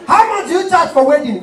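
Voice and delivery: the poor caller asks the MC's fee, high and squeaky. Retold or imitated.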